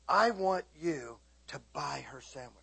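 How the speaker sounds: softly quoted word from God; God's quiet prompting. Retold or imitated. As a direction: deliver a gentle, weighty instruction. Quoting God's quiet instruction to him.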